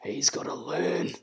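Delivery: stern dad speaking through tight lips; through pursed lips. Retold or imitated. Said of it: "through pursed lips, all he said was".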